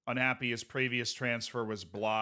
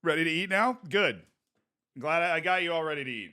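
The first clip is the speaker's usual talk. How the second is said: coaxing parent voice; 4 semitones higher, 4 dB louder than usual. Pretend. Coaxing pretend child to eat.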